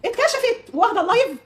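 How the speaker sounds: high, drawn-out mocking crow; mock gloating. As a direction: crow it slowly, imitating a rival's triumph. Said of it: "تقولي".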